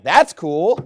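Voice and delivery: acted, mildly impressed reply; interested. Mexican local answering a visitor from Texas, interested. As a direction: receive it with genuine-sounding interest. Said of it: "they're actually more interested".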